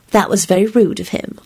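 mildly sweet, playful sympathy. A narrator's reading. Elizabeth teasing Lupin about his friend's outburst, sweetly. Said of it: "Elizabeth replied sweetly".

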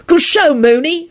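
high, slow, pleased congratulation; grinning. A narrator's reading. Sirius praising his friend, grinning. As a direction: congratulate with a grin, drawing it out. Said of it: "Sirius grinned".

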